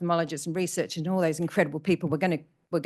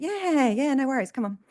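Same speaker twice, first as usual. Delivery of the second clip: quoting Jeff; 8 semitones higher, 3 dB louder than usual. Retold or imitated.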